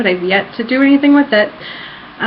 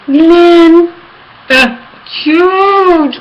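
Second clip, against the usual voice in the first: gushing; 9 semitones higher, 6 dB louder, much slower than usual. Real, not acted. Gushing about favourite character Glenn.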